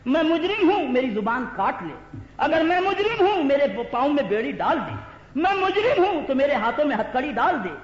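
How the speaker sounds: each opening flung high and loud, then dropping; impassioned preaching. Acted. Preacher offering himself for punishment, impassioned challenge. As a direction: declaim it as a defiant challenge.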